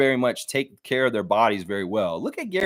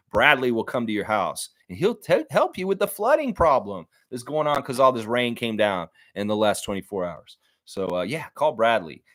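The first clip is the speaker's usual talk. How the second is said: mock ad read; 2 semitones lower than usual. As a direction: read it like a cheesy commercial. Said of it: "how he said he wants me to do".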